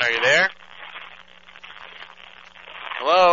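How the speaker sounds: loud radio call over static; crackly construction walkie talkie. Pretend. Pretending a bad phone line.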